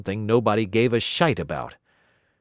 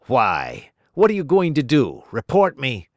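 louder sneering dare; mocking challenge; 3 semitones higher, 5 dB louder than usual. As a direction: taunt him to report you. Coombs taunting narrator.

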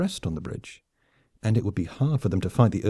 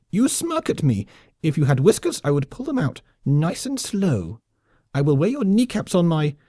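squeaky lemming threat; 7 semitones higher than usual. Acted. Lemming colonel threatens the off-worlder, high gloating squeak. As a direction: drag out the threat with relish.

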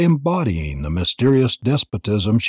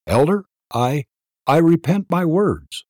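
halting, higher plea; faltering; 7 semitones higher than usual. A narrator's reading. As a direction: stumble over the first words. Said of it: "Jane faltered".

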